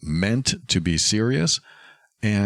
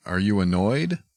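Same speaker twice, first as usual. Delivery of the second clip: confrontational question; 8 semitones higher than usual. Shown as a demonstration. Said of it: "That would usually lead to conflict".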